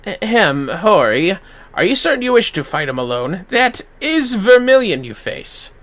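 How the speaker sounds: lightly voiced counsellor; warning a friend before a duel; cautious companion. Second NPC, lower.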